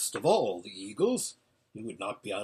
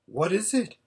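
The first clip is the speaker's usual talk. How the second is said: higher, eager breathless asking; breathless question; 6 semitones higher than usual. A narrator's reading. Listener begs the watcher for news, breathless question. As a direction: ask urgently, pitched up. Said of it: "asked Twin breathlessly".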